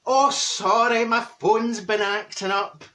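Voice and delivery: bright false excuse, slow; overdone apologetic fib; fake apology. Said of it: "and you say".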